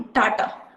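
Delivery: टाटा split into two clear beats, टा-टा; two-syllable demo. Shown as a demonstration. Therapist models the two-syllable word टाटा for parents. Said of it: "जैसे two syllable word".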